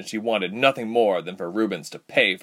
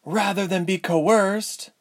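high, biting retort; spitting defiance; 11 semitones higher, slower than usual. A narrator's reading. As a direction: spit the words back. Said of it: "Ilse spat".

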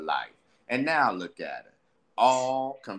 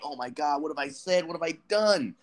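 lightly voiced, higher, apologetic self; humble, remorseful figure; 5 semitones higher than usual. Remorseful self regretting his words, humble and higher. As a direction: plead like a man who just realized his mistake. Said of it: "this other figure that's all humble".

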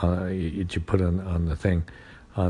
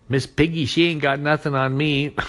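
higher and louder, playful; playful high boast; 9 semitones higher, 4 dB louder than usual. Retold or imitated. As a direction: boast it with a grin.

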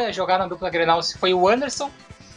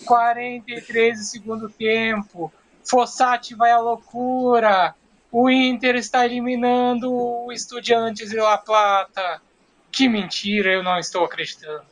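dejected commentary; slower than usual. Acted. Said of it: "no mesmo entusiasmo que ele deve ter ficado".

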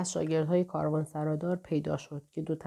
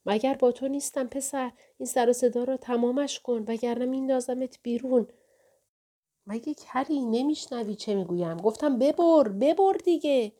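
put-on caravan keeper yells at the boy, higher and louder; a big bully roaring to wake him; booming shout; 6 semitones higher, 4 dB louder than usual. A narrator's reading.

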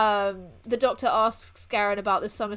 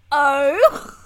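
stunned oh; 3 semitones higher, 11 dB louder than usual. Retold or imitated. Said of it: "And I went".

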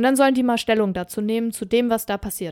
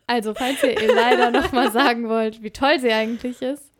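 laughing retake; 2 semitones higher, 4 dB louder than usual. Real, not acted.

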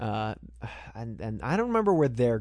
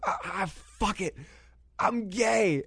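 mock confession; 7 semitones higher, slower than usual. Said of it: "he goes".

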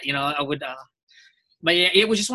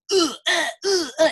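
sharp, high, louder effort grunts; fighting grunts; 12 semitones higher, 5 dB louder than usual. Shown as a demonstration. Actor demoing his recorded battle grunts, high and loud. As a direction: grunt like you're throwing punches in a fight. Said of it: "my grunts and my fighting sounds".

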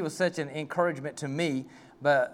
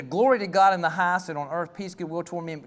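louder, ringing glory line; proclaiming; 4 dB louder than usual. Shown as a demonstration. Preacher showing how we read it, ringing and proclaiming. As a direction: proclaim it like the angels. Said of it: "we go, we read the".

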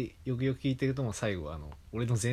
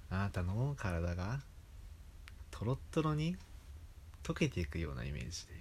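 lightly voiced anime girl ASMR; high cute anime girl; 6 dB quieter than usual. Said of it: "そのアニメ声の女の子が".

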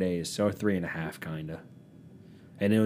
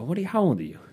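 high, stern scolding question; 9 semitones higher, much faster than usual. Retold or imitated. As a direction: scold her like a strict parent. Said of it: "I say it really stern-like".

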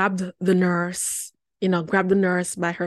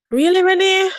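teary disbelief; 11 semitones higher, 9 dB louder than usual. Real, not acted.

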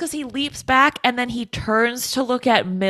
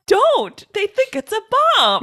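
higher, laughing plea not to open it; laughing warning; 12 semitones higher, 4 dB louder than usual. Pretend. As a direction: beg him to stop through a laugh.

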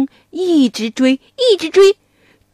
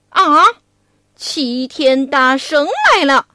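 frightened gasp. Acted. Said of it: "妖怪一听，心里害怕".

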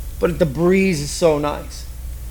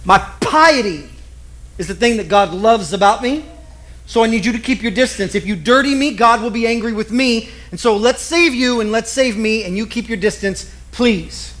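holier-than-thou. Retold or imitated. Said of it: "Here's what it meant".

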